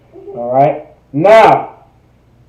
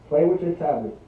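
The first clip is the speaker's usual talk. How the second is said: quiet aside; 6 semitones lower, 18 dB quieter, faster than usual. Real, not acted. Teacher quietly tells child aside.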